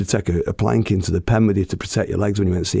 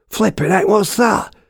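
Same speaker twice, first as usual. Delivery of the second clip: much higher, louder, bursting with excitement; a boy jumping about over the new horse; excited kid brother; 13 semitones higher, 3 dB louder than usual. Retold or imitated. Younger brother shouting with delight at the new horse, high and excited. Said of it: "He's like that, proper jumping about with excitement".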